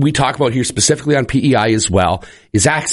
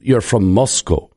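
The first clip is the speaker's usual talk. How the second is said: mock Russian accent; 2 semitones lower, slower than usual. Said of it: "you're doing an accent".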